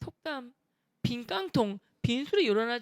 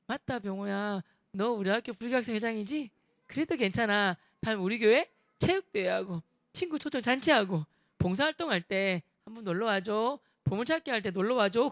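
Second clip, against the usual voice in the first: bright friendly invite. Retold or imitated. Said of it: "해맑게 웃으면서".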